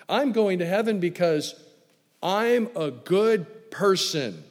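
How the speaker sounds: a touch of a smug boaster; mock smugness. Mocking the self-righteous claim.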